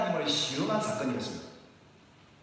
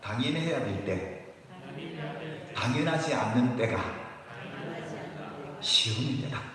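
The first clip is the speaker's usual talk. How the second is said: repeat-after-me phrase; 3 semitones lower than usual. Shown as a demonstration. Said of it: "따라합시다".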